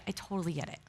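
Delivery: low, very soft reassurance; hushed, tender validation; empathetic husband. Retold or imitated. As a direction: murmur understanding, imitating a caring husband. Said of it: "so empathetic and loving".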